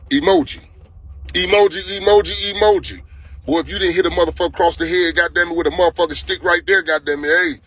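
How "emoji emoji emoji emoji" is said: sing-song calls of emoji, rising; playful call. Real, not acted. Greeting a viewer on the live chat, sing-song call.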